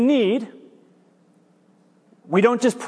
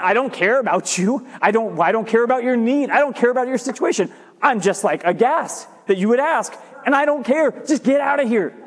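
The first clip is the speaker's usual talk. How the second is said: exasperated dismissal; faster than usual. Acted. Woken householder to a midnight caller asking for bread, exasperated. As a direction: brush off the unwanted visitor, mildly aghast. Grumpy reply to midnight visitor.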